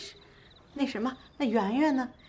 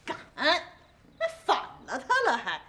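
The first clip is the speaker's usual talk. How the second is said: indignant, domineering huff; throwing weight around; 3 semitones higher than usual. Acted. Great-aunt hears the husband left, blustering indignation. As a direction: bristle as if you rule the house. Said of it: "别耍威风啊".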